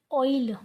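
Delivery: ऑयल as o-eel, round o gliding to i; teacher's clear ऑयल, ee glide before l; correct pronunciation demo. Shown as a demonstration. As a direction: repeat ऑयल carefully with a rounded oi. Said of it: "इसको ऑयल बोलते".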